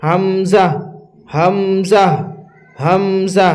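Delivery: হামজা said firm and light, each separately; hard thin sound. Shown as a demonstration. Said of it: "হামজা শক্ত ও পাতলা আওয়াজে". (শক্ত ও পাতলা আওয়াজে হামজা)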